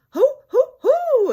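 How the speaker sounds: high, loud triumphant hooting; triumphant hoo hoo. A narrator's reading. Tigger whoops at Pooh, triumphant and loud. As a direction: whoop in triumph like a bouncy tiger. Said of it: "exclaimed Tigger triumphantly".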